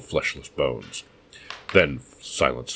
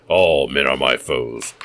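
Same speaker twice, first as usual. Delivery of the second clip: slow, much louder, ALL stressed; ranting declaration; 6 dB louder, slower than usual. Acted. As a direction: hurl "All men are my foes" at him loudly. Madman rants at Kane.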